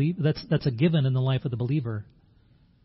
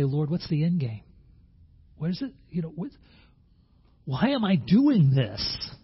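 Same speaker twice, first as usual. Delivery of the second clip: discouraged questioning; 3 semitones higher than usual. Acted. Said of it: "so we become discouraged".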